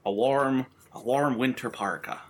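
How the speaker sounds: lightly voiced gruff Liam Neeson; a hint of a tough action-hero growl; understated Liam Neeson voice; Liam Neeson impression. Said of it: "That's my Liam Neeson impression".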